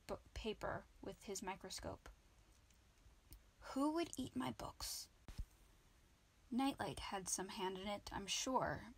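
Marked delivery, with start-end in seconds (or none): 3.7-5.1 breathy wondering to himself; baffled whisper. A narrator's reading. Wizard staring at his gnawed books, whispering. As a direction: hush it, puzzled and worried.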